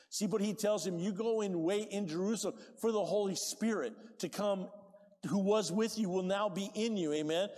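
loud preaching of scripture; full-force preaching. Acted. Pastor preaching Acts to the congregation at full force. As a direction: proclaim it to the whole church.

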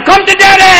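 high seductive voice. Retold or imitated. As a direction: tease like a lover. Glove voiced as vagina.

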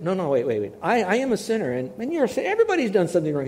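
urgent insistence; insisting. Retold or imitated. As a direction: hurry to correct him. Insisting to the man.

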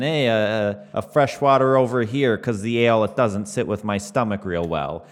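lightly put-on Canadian accent, easygoing. Player voices his Saskatchewan character ordering, light Canadian accent. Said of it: "you know, Canadian accent".

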